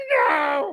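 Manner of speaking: very high, shrill, horrified goblin-like cry of shock. Voicing a little goblin who finds his dead friend: goblin's horrified cry. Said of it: "And he's like".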